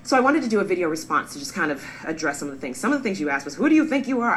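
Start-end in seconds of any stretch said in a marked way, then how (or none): 3.6-4.4 higher, louder mock accusation; indignant challenge. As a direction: imitate an affronted critic demanding an answer. Quotes an accusing commenter.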